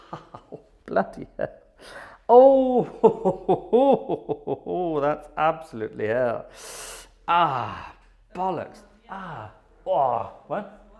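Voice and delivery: loud groans through pained laughter; real cramp pain. Real, not acted. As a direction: cry out with a sudden foot cramp, laughing through it. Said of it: "I've got the most amazing cramp in my right foot".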